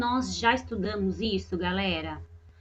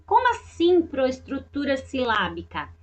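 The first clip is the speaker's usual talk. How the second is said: puzzled pupil; 3 semitones higher than usual. Pretend. Teacher voices puzzled pupil question.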